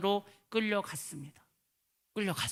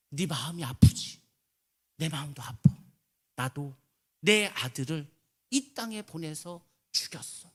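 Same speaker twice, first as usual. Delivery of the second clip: voice of God; slower than usual. Retold or imitated. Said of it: "이런 음성을 들려줬다고".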